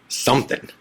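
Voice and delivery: an ominous unvoiced whisper on the last word. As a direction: lean in and breathe the word Something. Warning friend before questioning.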